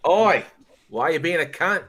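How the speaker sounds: high-pitched, loud "oi" challenge; mock confrontation. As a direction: call someone out with comic indignation. Acting out blunt confrontation of rude person.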